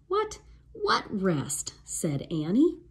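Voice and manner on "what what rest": slow frightened whisper, high; scared whisper. A narrator's reading. Annie whispers to the threatening pirate. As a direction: breathe it out in fear.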